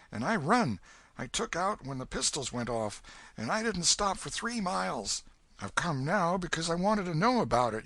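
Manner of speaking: put-on a frightened boy begging for secrecy; scared boy Huck. Huck begs the old man to keep his name secret, high and scared.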